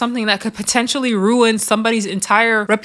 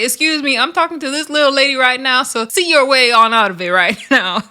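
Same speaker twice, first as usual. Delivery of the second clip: higher-pitched, sassy mimicked accent; imitated a singer's accent; 3 semitones higher than usual. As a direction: mimic her accent while dismissing someone. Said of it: "I just love her accent".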